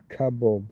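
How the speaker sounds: "kebab" as KA-bob; North American pronunciation. Shown as a demonstration. Streamer listing North American variants, KA-bob pronunciation. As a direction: say "kebab" with a short A first, then "bob". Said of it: "turn the final A sound into an O".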